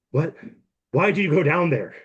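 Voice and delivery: high-pitched, incredulous question; baffled questioning. Acted. Girl questions the player, alarmed.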